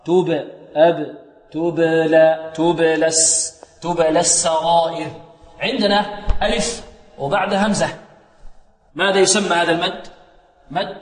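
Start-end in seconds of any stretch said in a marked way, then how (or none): 0.1-5.1 slow demo of تبلى, the ب bouncing at the lips; drawn-out تبلى with an echoed ب; qalqala on ba. Shown as a demonstration. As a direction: let the ب of تبلى rebound, no vowel after it. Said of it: "بل اضطراب في المخرج".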